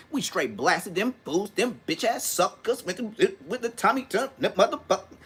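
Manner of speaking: put-on old-school gangster rapper cadence, rising as it goes. Showing how big homies talk like the rapper, rap cadence. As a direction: punch each phrase like rapped street talk. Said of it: "how he rap is how they talked".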